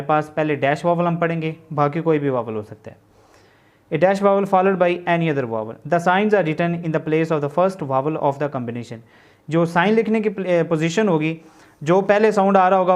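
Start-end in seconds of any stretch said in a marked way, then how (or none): 3.9-9.1 word by word, spelled out slowly for notes; slow classroom dictation of a definition. Shown as a demonstration. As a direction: dictate it so students can write along.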